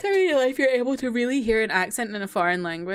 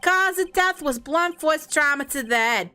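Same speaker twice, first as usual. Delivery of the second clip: hard-boiled detective, talking out of one side of the mouth; gumshoe voice; 3 semitones higher than usual. Acted. Reading a detective's lines, lightly voiced gumshoe talking sideways. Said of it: "doing the gumshoe voice, I talk out of this side of my mouth".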